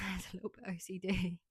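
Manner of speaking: hushed admission, laughing; laughing whisper. Real, not acted.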